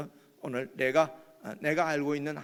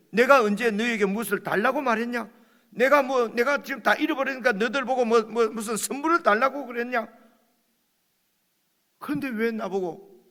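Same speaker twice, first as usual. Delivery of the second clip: Job protesting; 6 semitones higher, 6 dB louder than usual. Acted.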